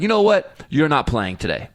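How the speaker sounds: an angry father laying down the law; retold angry outburst; mad dad outburst. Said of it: "I walked up all mad".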